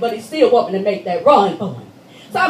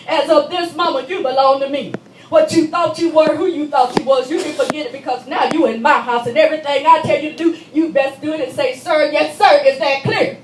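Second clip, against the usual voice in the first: louder, higher barked commands; stern guard orders; 3 semitones higher, 4 dB louder than usual. Retold or imitated. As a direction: lay down the law like a drill guard. Prison guard orders new inmate.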